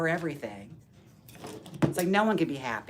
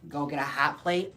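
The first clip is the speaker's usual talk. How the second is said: lightly put-on Minnesota accent; a hint of mock Minnesotan, rising. Trying out the Canadian lore, drifting into Minnesota accent. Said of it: "I guess that's more Minnesota".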